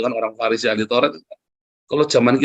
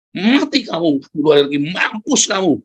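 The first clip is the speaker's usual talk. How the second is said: higher, half-hammed curse at the city; mock angry preaching; 3 semitones higher than usual. Jonah cursing the Ninevites while preaching, mock angry. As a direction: play Jonah spitting doom, lightly. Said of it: "Kamu caci maki sama Yunus itu kan".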